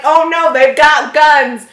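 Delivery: slow, loud mocking of a scared parent; mock the frozen parent; mock timid parent. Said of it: "you're just gonna stand there like".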